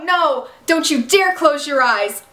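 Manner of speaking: slow, a touch of tearful pleading; mild imitated pleading. Arya begging the dying Ezra, a touch of tearful pleading. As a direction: lightly act out Arya begging. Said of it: "Arya starts hysterically crying and screaming".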